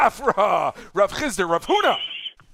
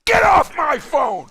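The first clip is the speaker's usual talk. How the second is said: mock shout; 5 semitones higher, 4 dB louder than usual. Host jokingly shoos a caller.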